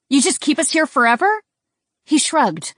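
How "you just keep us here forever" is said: panicked question. A narrator's reading. Frightened demand.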